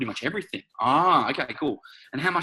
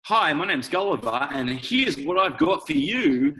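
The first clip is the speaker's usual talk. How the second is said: higher, slow hammed-up sales pitch; salesy pitch; 3 semitones higher, slower than usual. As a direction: oversell it with commission breath. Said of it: "It's called commission breath".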